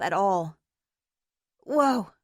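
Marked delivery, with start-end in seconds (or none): 1.6-2.1 unsteady whoa. Acted. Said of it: "said April".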